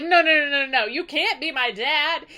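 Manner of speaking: loud rapid refusals, easing off; disbelieving protest. Retold or imitated. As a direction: protest like a son in mock disbelief. Telemachus refuses to believe Odysseus.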